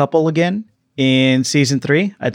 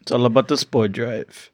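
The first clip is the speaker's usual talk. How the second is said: Vin Diesel impersonation; 2 semitones lower, 4 dB quieter than usual. Acted. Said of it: "That is my Vin Diesel impersonation".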